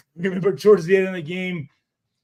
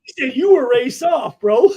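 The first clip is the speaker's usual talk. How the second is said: said again louder and harder, to be heard; louder emphatic repeat; 6 semitones higher, 7 dB louder than usual. Retold or imitated. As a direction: repeat it louder for the teammate who asked.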